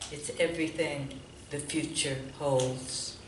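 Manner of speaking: measured poem recital with deliberate pauses; poetry reading. Real, not acted. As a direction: read it line by line, letting each image land. Reads own poem aloud.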